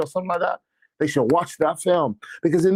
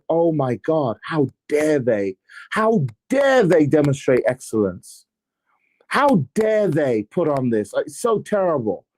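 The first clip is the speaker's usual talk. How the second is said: sarcastic mock outrage; 4 semitones lower than usual. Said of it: "And my sarcasm kind of hit".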